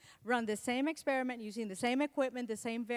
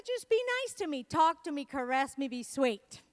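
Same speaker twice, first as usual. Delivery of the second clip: pleading wife; 3 semitones higher, 4 dB louder than usual. Retold or imitated. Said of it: "But I said".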